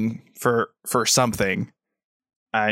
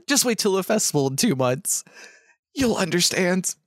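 Astrid voice; 7 semitones higher than usual. Acted. Astrid reassures the player.

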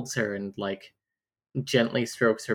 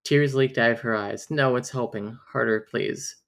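romance novel narrator. Acted. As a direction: lightly read book narration. Reads a romance novel passage.

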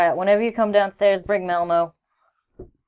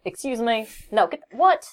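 indignant; 4 semitones higher than usual. Retold or imitated. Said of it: "Rutika would be like".

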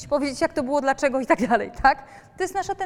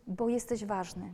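tender reassurance; 2 semitones lower, 5 dB quieter, slower than usual. Shown as a demonstration. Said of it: "Tylko musimy powiedzieć".

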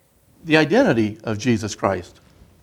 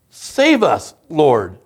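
mildly acted desperate plea, pitched up then falling; crying out; much slower than usual. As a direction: call out for rescue, without shouting. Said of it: "they cried out".

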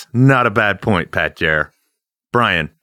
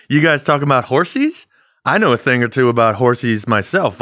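laughing while teasing; laughing mock; 4 semitones higher than usual. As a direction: tease them through a laugh. Mocking horse talk.

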